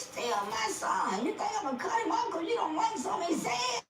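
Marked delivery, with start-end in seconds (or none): 1.2-3.8 laughing disbelief. Real, not acted. Mother defending her son, laughing.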